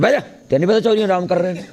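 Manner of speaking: rushed mock scolding from a lackey; mock officious lackey. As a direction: lightly play a henchman shooing a visitor away. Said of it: "ਚੌਧਰੀ ਦੇ ਚਮਚੇ".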